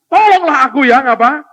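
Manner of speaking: high loud plea for help; shouted plea. Acted. Father shouting to Jesus for help, high plea. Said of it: "Dan dia teriak".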